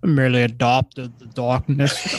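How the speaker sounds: lightly voiced villain; Bane. Co-host retries his Bane, tentative villain impression. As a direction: attempt a measured villain impression. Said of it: "I'm gonna try Bane again".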